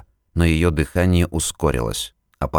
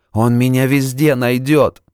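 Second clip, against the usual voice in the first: hysterical fear; 7 semitones higher, 4 dB louder than usual. Acted. Terrified patient.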